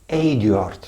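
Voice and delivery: Eduard said the Dutch way, opening on a long "ay"; Dutch pronunciation. Shown as a demonstration. Teacher showing learners a Dutch letter in Eduard, Dutch pronunciation. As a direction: say Eduard as "AY-du-art". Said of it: "Here you pronounce like".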